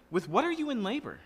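high, accusing question to the father; indignant challenge. Acted. Pot challenging its maker.

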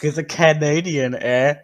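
put-on jokey Canadian accent with a tagged "eh". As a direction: ham up being Canadian. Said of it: "Why is he Canadian?".

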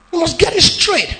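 ordinary delivery

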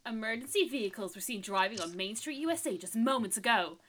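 lightly put-on American newsreader. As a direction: read it out like a news bulletin. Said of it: "That was my newsreader voice".

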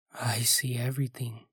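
soft whisper with a sly chuckle; chortling whisper. Acted. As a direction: breathe it out with a creepy chortle. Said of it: "the voice chortled".

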